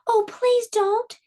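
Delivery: high, slow frightened plea; little goat pleading. Acted. Littlest goat begs the troll not to eat him. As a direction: beg for mercy, small and scared. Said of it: "said the littlest billy goat".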